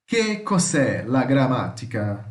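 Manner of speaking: slow, careful Italian read-out. Shown as a demonstration. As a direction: read each word slowly for the class. (leitura lenta em italiano)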